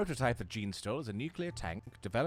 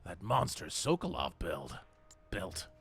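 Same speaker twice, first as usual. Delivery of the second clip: raspy Snake voice; slower than usual. Acted. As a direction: growl it out like a grizzled soldier. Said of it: "I got a little raspy up there".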